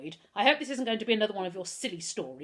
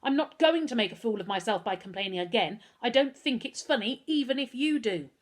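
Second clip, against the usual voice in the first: raised, scolding anger; very angry; 3 semitones higher, 5 dB louder than usual. Acted. Mother angrily scolding her son about lies, raised voice. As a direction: tell him off firmly. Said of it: "Missus Hunter was very angry".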